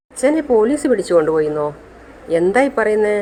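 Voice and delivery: stunned aunt repeating the news back; shocked disbelief. Acted.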